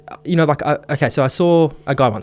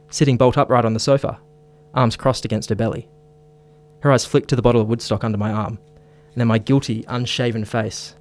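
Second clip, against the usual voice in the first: broad Aussie Bogan accent narrating. Shown as a demonstration. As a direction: read it as a broad Australian Bogan. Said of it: "I gotta get my Bogan voice on".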